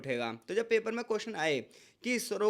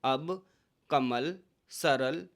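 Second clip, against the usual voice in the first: कमल, सरल drawn out syllable by syllable; slow word demo; 5 semitones lower, much slower than usual. Shown as a demonstration. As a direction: spell out कमल, सरल slowly. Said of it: "जैसे आप बोलो". (कमल, सरल धीरे-धीरे)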